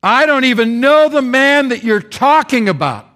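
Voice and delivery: loud, high desperate denial. Acted. Peter denying Jesus to the crowd, loud and high. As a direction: deny him at full voice.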